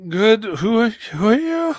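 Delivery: high, loud confusion; rescued client asking who he is; dazed client. Acted. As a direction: sound shaken and lost.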